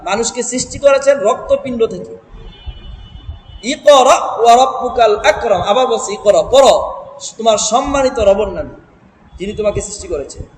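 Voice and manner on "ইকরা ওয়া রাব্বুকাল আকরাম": slow melodic Quranic chant; Quran recitation. Shown as a demonstration. Teacher reciting the verse to students, melodic chant.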